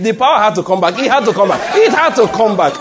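high-pitched telling through laughter; laughing while talking. Real, not acted. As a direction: tell it while cracking up. Retells funny story while laughing.

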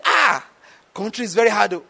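incredulous objection. Retold or imitated. Retelling a friend's incredulous objection.

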